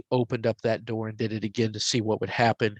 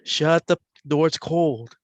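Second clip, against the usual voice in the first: Jim's voice; 2 semitones higher, 4 dB louder than usual. Retold or imitated. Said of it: "before Jim's voice comes on".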